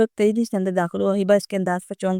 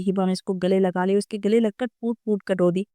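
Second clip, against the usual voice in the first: plain reading voice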